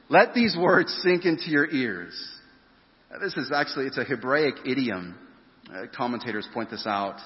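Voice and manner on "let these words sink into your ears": higher pitched insistent command; the parent telling kids to listen up; firm parent. Acted. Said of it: "Parents, you ever said that to your kids?".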